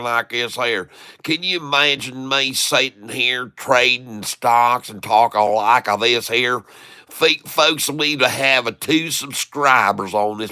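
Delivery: a light, hammed-up Southern hillbilly accent; Southern hillbilly accent, lightly put on. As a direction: play a Southern country farmer, only lightly. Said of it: "Can you do a hillbilly voice?".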